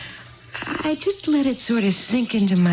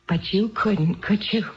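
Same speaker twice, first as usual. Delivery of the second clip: bitter accusation. Acted. Wife's bitter accusation building.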